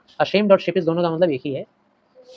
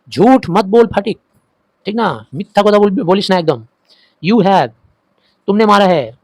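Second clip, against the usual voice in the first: loud scolding, higher pitched; mother shouting; 4 semitones higher, 8 dB louder than usual. Acted. Mother shouts at Fatik for lying, loud and high. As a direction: yell at the lying son. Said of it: "उसकी mummy चिल्ला के बोली".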